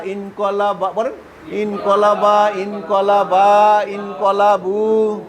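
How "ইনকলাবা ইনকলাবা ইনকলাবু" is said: slow drill. Shown as a demonstration. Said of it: "teacher drills the verb form".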